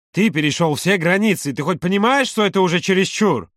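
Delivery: high, indignant outburst. A narrator's reading. Юра reproaching Володя for crossing all boundaries, indignant. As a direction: build up in exasperated reproach. Angry message read out from Юра.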